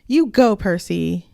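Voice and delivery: cheering someone on. Retold or imitated. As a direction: imitate a peppy sidekick's encouragement. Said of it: "other than being like".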